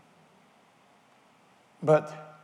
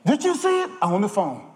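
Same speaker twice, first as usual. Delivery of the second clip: gossip voice; 5 semitones higher, 4 dB louder than usual. Acted. Preacher mimics gossip on phone.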